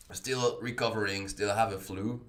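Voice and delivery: hoarse flu voice; sick voice. Real, not acted. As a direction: voice worn down by a flu. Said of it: "Guess I have to manage this voice".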